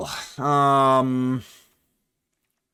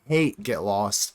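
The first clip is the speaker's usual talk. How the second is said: slow disgust; 6 semitones lower, 4 dB quieter, much slower than usual. Real, not acted.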